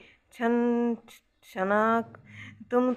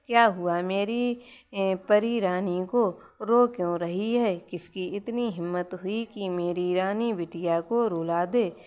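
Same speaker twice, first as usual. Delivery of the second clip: tender coaxing. Acted. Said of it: "प्यार से पुचकारते हुए कहती".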